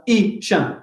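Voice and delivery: "Ishan" as two separate beats; syllable by syllable. Shown as a demonstration. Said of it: "Only two syllables".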